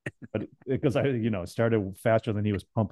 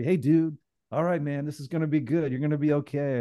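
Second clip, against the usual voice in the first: lightly voiced, slightly higher frat-guy patter; a hint of an energetic Long Island bro; bouncy frat dude; 3 semitones higher than usual. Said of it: "slightly chubby frat dude from Long Island that was bouncy".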